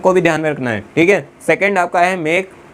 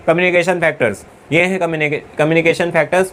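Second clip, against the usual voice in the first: dull rote reading. Shown as a demonstration. Teacher demonstrating to students how not to read, dull rote reading. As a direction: show students the bored, mechanical way. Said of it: "अब ऐसा नहीं होगा मैंने पढ़ाया".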